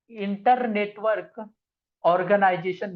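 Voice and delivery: each word spaced out slowly; slow dictation. Shown as a demonstration. Teacher dictating the full form slowly to students. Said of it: "इसका full form है".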